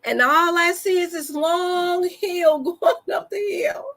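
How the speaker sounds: giggling through the words; laughing while talking. Real, not acted. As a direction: laugh as you describe it. Laughing while telling the hill climb.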